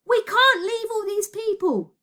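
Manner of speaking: slow, high, loud protest; shouting back. A narrator's reading. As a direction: shout back an urgent refusal, drawn out. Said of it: "Elliot shouted back".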